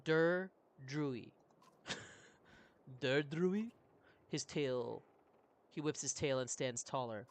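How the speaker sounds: a hint of a gruff beast-man, halting words; broken-speech horse creature. Roach answering the adventurer, lightly voiced creature. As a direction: speak like a proud horse-man with few words. Roach explaining his mate.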